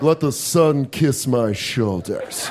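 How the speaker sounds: mock-dreamy confident man; confident tank top guy. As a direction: savor each word like basking in sun. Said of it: "You're the most confident man in the world".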